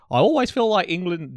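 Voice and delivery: bad Scottish accent attempt; mock Scottish pundit voice. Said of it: "this is my Scottish accent, it's so bad".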